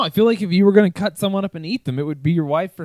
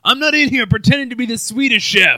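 loud, higher mock Italian accent; 5 semitones higher, 6 dB louder than usual. Husband protesting to his wife, put-on Italian accent. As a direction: ham up a rough Italian-American accent. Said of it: "Is that pretty good for an Italian accent?".

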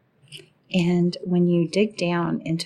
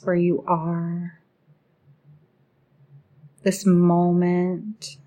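measured meditation guide, even pitch with long pauses; guided meditation. Acted. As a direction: guide the listener gently into relaxing, phrase by phrase.

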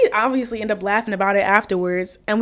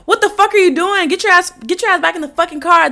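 raised, high-pitched telling-off; mock angry yelling; 7 semitones higher, 5 dB louder than usual. Storyteller replaying her row with another driver, mock angry. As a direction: order them back, high and heated. Acted shouting match with driver.

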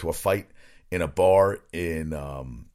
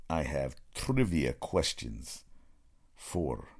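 slow, halting fake Russian accent; slow, cheesy Russian accent; bad Russian accent; 5 semitones lower, 7 dB quieter, slower than usual. Shown as a demonstration. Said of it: "doing a bad Russian accent".

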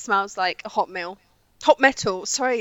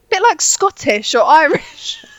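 slow quote; 10 semitones higher, 4 dB louder, slower than usual. Retold or imitated. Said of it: "She goes".

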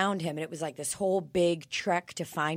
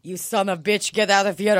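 mock angry dad shout; 7 dB louder than usual. Voicing Igor angry.

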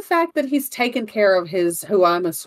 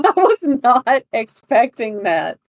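talking through laughter; laughing while she speaks. Real, not acted. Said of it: "still trying not to laugh".

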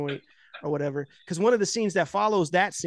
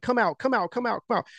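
goading taunt; 5 semitones higher than usual. Retold or imitated. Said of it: "the cab driver's goading him".

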